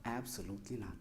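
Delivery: father quietly turns down revenge; calm smiling refusal. Retold or imitated. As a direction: settle it kindly with a smile. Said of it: "Abdallah smiled and said".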